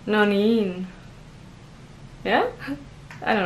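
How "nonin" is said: nonin starting firm, long falling -niin; first-syllable stress, long second. Shown as a demonstration. Learner practising the admit-defeat nonin, first-syllable stress. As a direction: stress NO- and draw out the end of nonin. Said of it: "stress goes on the first one".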